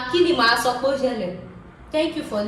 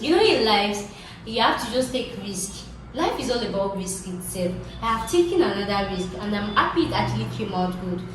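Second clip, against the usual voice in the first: motivational speaker voice; booming motivational speech. Pretend. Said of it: "now let me talk like a motivational speaker".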